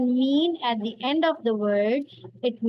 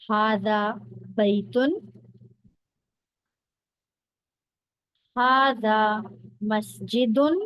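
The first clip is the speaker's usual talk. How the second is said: model for repeating; 2 semitones lower than usual. Shown as a demonstration. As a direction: clear teacher model for pupils to repeat. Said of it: "You can repeat after me".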